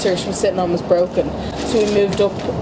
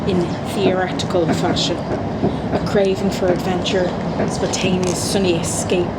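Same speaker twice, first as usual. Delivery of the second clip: dramatic horoscope read. Acted. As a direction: read it like an oracle, savouring each line. Reading horoscope aloud.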